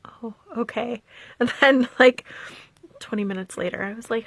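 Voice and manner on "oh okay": soft, small 'oh, okay'; meek retold reply. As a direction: back off quietly, imitating him. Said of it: "He was like".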